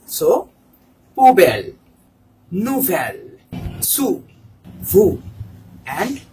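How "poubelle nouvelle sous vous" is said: "poubelle, nouvelle, sous, vous" with "oo" for ou. Shown as a demonstration. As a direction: model "poubelle, nouvelle, sous, vous" one by one, silent final s. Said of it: "U pronunciation".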